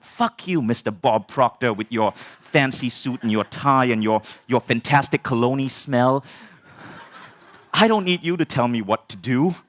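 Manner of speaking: comic indignant inner rant; retold anger. Student mentally telling off his mentor, hammed-up anger. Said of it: "now I'm fucking angry".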